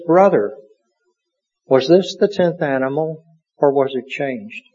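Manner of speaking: a touch of stern rebuke. Acted. Priest questioning the brother over his lamb, stern. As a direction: question him sternly, slowing at the end. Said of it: "in a rather stern voice he says".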